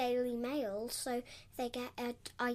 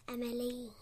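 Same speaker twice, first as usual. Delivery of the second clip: whispering. Real, not acted. Child whispers a name.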